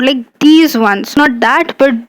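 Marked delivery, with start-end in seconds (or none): 0.4-1.2 these stretched out slowly, pointing it out; stress on these. Shown as a demonstration. Teacher pointing out fruit to students, stress on these. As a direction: draw out "these" to single them out. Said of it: "So I'm pointing out".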